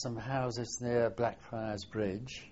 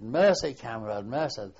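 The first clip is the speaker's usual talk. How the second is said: retold surrender shout; 7 dB louder than usual. Veteran imitates German gunners surrendering, retold shout. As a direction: mimic a cry for mercy, easing after the first word. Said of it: "and shouted".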